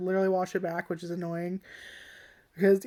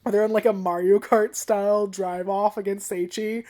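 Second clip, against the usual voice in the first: ordinary talk, nothing marked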